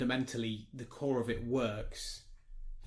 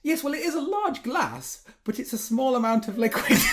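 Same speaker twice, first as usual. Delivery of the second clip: waiter quote; 11 semitones higher, 7 dB louder than usual. Retold or imitated. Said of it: "the waiter goes".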